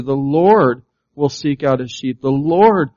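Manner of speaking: each "The Lord will" line a little stronger; building preaching. Acted. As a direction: drive the list home to the congregation. Building preached list, rising force.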